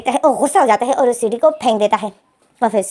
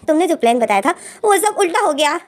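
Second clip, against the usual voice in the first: mildly annoyed; 5 semitones higher than usual. Acted. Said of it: "जाओ जिशु जो गुस्से में है".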